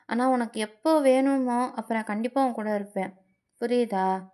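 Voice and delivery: a lightly voiced gentle but firm lover; a singer.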